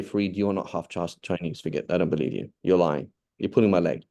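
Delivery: acted disbelief. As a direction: play a sceptic dismissing the claim. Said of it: "if you deny what I'm saying".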